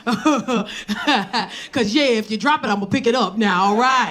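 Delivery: lightly voiced rambling old man; mock an old man's chuckling aside; older gentleman. Older boyfriend mid-conversation, lightly imitated. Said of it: "he be like".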